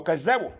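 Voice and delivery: كذبوا read kezabu with a rising tune; كذبوا said kezabu as a mistake; wrong reading. Shown as a demonstration. Teacher shows viewers a second wrong كذبوا, kezabu. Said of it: "اوعى تقول ... أو".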